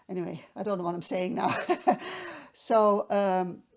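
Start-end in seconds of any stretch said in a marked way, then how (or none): 0.1-1.5 laughing at herself. Real, not acted. Flustered at the story's end. 1.6-2.5 breathy embarrassed giggle. Real, not acted. Flustered at the story's end.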